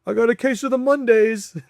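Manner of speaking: mock office cheer guy. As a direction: parody the TGIF guy. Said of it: "not everybody's supposed to be the guy that's".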